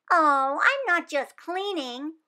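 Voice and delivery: put-on earnest little girl sure of her plan; hopeful child; eager young Wanda. Wanda corrects Missus Giamoni.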